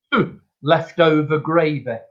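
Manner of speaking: unimpressed old customer's verdict, lightly acted; retold dubious grumble. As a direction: hum doubtfully, then dismiss the soup. Voices a sceptical soup customer.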